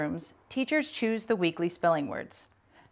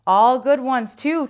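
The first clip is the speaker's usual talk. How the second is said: bright chirp, high and louder; chirpy; 6 semitones higher, 9 dB louder than usual. Acted. Kathy backs her friends, chirping high and eager. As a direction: chirp it eagerly like a keen pupil. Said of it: "chirped Kathy".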